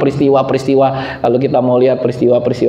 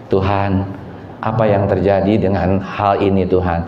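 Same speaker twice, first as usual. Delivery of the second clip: humble prayer; 5 semitones lower than usual. Shown as a demonstration.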